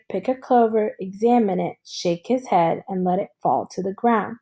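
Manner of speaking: steady reading voice for the class; story read-aloud. A narrator's reading. Teacher reading a novel aloud to her class, steady storytelling. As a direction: read the novel to students evenly.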